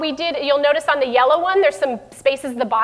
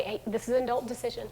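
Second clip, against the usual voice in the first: softer, matter-of-fact; firm calm parent; 9 dB quieter than usual. Shown as a demonstration. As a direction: state it calmly and firmly. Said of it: "what are those things that we can just say".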